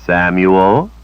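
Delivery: Samuel with a rising, warning lift; rising inflection. A narrator's reading. Mistress prompting her servant, rising tone. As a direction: let Samuel rise as a warning. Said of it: "she said with rising inflection".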